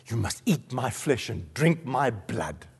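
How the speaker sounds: low, soft and slow, with weight; hushed, solemn quote. Acted. Preacher quoting Jesus to the congregation, hushed and solemn. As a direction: lay the words down quietly and gravely.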